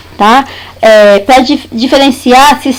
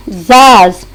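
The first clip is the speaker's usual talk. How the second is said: "zaz" set apart, dropping in pitch; single out "zaz" as one low beat; stressed syllable alone; 4 semitones lower than usual. Shown as a demonstration. Teacher isolating the last syllable of quizás, stressed syllable alone. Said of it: "na sílaba tônica dessas palavras".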